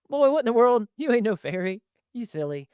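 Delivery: dad telling off his fairy-winged son, mock gruff; gruff country dad. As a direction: bark it like a scolding country dad. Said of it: "But if they had, like".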